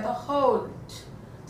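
होल्ड drawn out slowly and softly, ओ gliding a to u; slow soft model pronunciation. Shown as a demonstration. Teacher quietly shows how होल्ड really sounds. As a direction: glide through the ओ in होल्ड gently. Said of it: "ओ और उ आता है".

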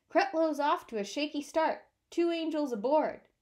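lightly nasal play-by-play call; radio announcer. Acted. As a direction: call the game off a car radio. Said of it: "he heard Leo from a car radio".

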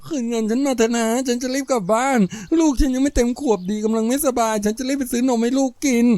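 high, weepy begging; tearful pleading. Acted. Woman keeps begging tearfully. (วิงวอนเสียงเครือสูง)

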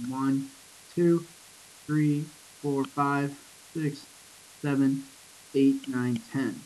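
spaced, measured count. Shown as a demonstration. Teacher tallies the next line's syllables, slow and spaced. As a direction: count along slowly, leaving gaps. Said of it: "if I follow that pattern through".

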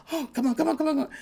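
high, light urgent pleading; urgent coaxing. Acted. Attendants to the fainted Queen of Sheba, urgent high coaxing.

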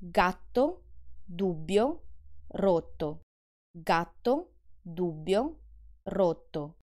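Gatto, dubbio, rotto with a pause and a long tt, bb, tt; Italian doubles demo; held double consonants. Shown as a demonstration. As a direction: hold each double a beat longer. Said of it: "Look at the way I say these three words".

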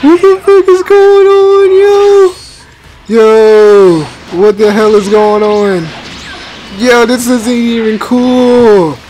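very high, slow squeaky put-on voice; squeaky freak-out. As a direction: squeak it out like a panicked cartoon.

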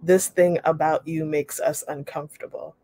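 steady, clear read-aloud of a memoir passage. Acted. Teacher reads memoir passage to class, clear read-aloud voice. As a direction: read the story to the class at an even pace.

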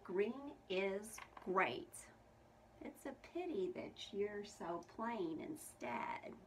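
slow, smug frog voice; a proud frog looking down on someone. Acted. Frederick Frog mocks Percival.

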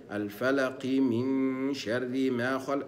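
الفلق من شر ما خلق slowly linked; recitation. Shown as a demonstration. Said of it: "إن كان إيه". (تلاوة موصولة ببطء)

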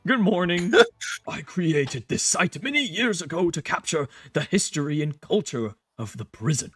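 soft, put-on character voice; soft game character. Game character telling the site's history, soft voice. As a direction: read softly as a game figure.

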